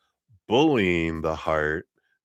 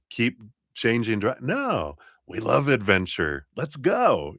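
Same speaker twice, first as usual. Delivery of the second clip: higher, eager spirit guide voice; cheerful spirit guides; 5 semitones higher than usual. Retold or imitated. Spirit guides reassuring us to try anything, higher and eager. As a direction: cheer them on like excited guides. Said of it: "They're like".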